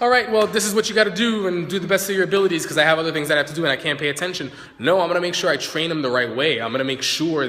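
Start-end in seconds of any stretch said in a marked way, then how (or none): 0.0-4.5 quick, higher, louder careless instructions; dismissive hurried boss. Retold or imitated. Boss brushing off a new secretary, rushed and dismissive. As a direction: rattle it off like a boss with no time. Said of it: "and just".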